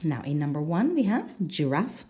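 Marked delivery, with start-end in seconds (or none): 1.5-2.1 "giraffe" stressed on the second syllable. Shown as a demonstration. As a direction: lean on the last syllable of "giraffe". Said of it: "the second syllable".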